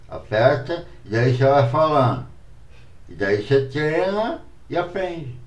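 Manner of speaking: talking around a pen; pen in teeth. Shown as a demonstration. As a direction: speak with a pen between teeth. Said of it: "falar com a caneta na boca".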